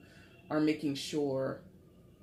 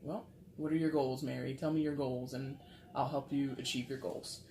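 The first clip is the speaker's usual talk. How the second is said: mock-serious, quieter advisor voice; really serious; 3 dB quieter than usual. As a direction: play a sober bank manager advising a client. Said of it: "really serious".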